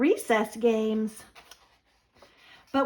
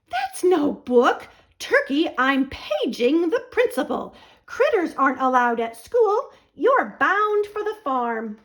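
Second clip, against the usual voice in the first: firm, louder telling-off; stern teacher; 2 semitones higher, 3 dB louder than usual. Acted. Teacher to Turkey, ordering him back to the farm: stern and loud. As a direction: scold the turkey sternly, slowing on the first words.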